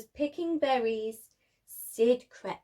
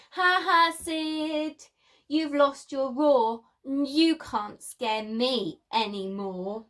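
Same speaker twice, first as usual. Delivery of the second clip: teasing taunt; 3 dB louder than usual. Acted. Friend mocking Sid, lost roar.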